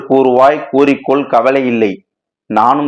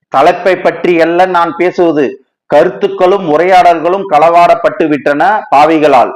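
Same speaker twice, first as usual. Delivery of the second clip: agitated outburst; 4 semitones higher than usual. Acted. To Sundar, over his stolen writing, agitated and higher. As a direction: blurt it in a frantic rush of outrage. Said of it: "பதறாதே".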